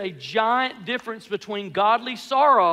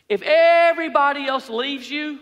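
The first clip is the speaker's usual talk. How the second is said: bragging; 3 semitones higher, 5 dB louder than usual. Acted. Peter swearing loyalty to Jesus, bragging. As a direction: boast it out, higher on everybody. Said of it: "He's bragging to Jesus".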